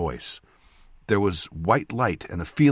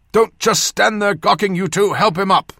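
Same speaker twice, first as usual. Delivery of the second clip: put-on loud, high old surgeon's voice; scolding order; 12 semitones higher, 8 dB louder than usual. A narrator's reading. Surgeon telling two onlookers to help, loud scolding. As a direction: order idle helpers sharply and loudly.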